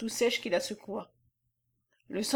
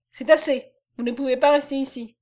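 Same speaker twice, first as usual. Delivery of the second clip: angry; 2 semitones higher, 6 dB louder than usual. Acted. Womble ordering Messner out of the cabin, angry. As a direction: put a stop to it angrily. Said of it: "un flot de colère embrunit sa figure".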